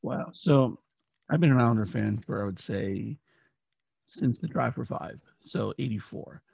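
raspy, worn-out voice; hoarse from cheering all night; hoarse cry. Real, not acted. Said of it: "As you can tell, I lost my voice a little bit".

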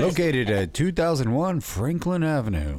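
sultry ad-read voice; sexy voice. Pretend. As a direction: purr the address like a seductive announcer. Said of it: "that's a sexy voice".

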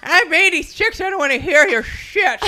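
put-on high, loud cranky old woman; old lady voice. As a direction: snap at him like an irritated eighty-six-year-old. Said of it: "Put in an old lady voice".

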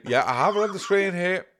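high, lightly voiced mum; a hint of a chirpy mum. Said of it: "she'd say".

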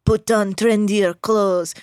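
slow, lightly imitated veteran actor; Al Pacino. Host quotes the veteran actor in the trailer, slow imitation. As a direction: draw it out as a star's trailer line. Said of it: "Pacino's just like".

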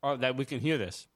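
talking with mouth full; words around a bite of food. Real, not acted. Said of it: "stop eating during the show".

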